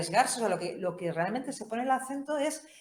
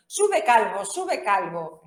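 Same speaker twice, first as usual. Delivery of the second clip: burla de niños; 7 dB louder, much slower than usual. Acted. Burla de los chicuelos.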